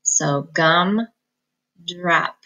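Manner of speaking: "gum" then "drop" apart; each part on its own; slow decoding; syllable split. Shown as a demonstration. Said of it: "split right in the middle".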